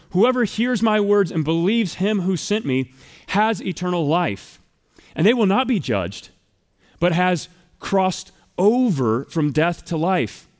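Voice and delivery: slow, deliberate verse quote; reading the verse to the congregation, measured; scripture reading. Acted. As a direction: let each word of the verse land. Quotes verse twenty-four.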